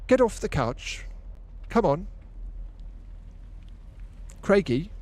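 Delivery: high, slow command to the dog; scolding the dog. Acted. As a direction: shoo the dog off the couch, slowly. Ordering the dog off couch.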